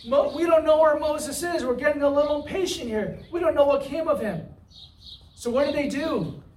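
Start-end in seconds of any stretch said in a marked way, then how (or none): 0.1-4.5 higher, impatient mock grumble; a light mock of the impatient people; impatient complaint. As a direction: sound like a restless crowd losing patience. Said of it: "They say".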